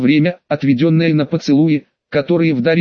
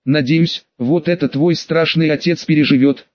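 ordinary delivery, nothing marked

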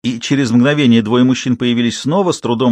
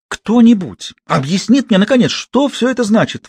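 shrill squeal; 10 semitones higher, 3 dB louder than usual. A narrator's reading. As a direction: shriek the question out. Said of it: "взвизгнула Сюзанна".

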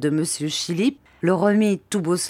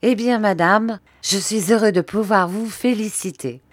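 affable tone; 4 semitones higher than usual. Acted. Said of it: "d'un ton affable".

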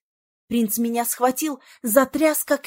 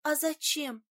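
softer, hushed question; whisper; 3 semitones higher, 6 dB quieter than usual. A narrator's reading. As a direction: ask under her breath. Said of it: "шёпотом спросила Фиона". (шёпотом)

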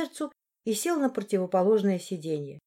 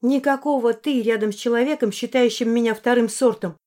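louder, higher, offended; indignant; 3 semitones higher, 5 dB louder than usual. Acted. Heroine rejects the informal you, louder and indignant. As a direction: throw it back at him.

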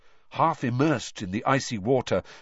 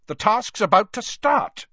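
higher, louder bossy official; bossy, disapproving; 10 semitones higher, 6 dB louder than usual. A narrator's reading. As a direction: snap at a late champion like a prefect. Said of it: "said a bossy, disapproving voice".

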